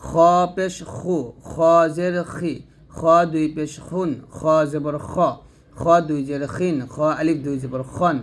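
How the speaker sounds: heavy kh in খ, খু, খি, খন; thick kha. Shown as a demonstration. Teacher drills learners on a thick খ. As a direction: keep each খ full and heavy. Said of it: "মোটা করতে হবে।".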